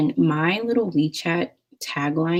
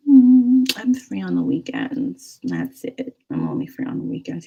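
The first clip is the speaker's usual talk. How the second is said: reluctant; 3 semitones higher, 3 dB louder than usual. Retold or imitated. Answering his request to meet, acted reluctance. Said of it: "very reluctant".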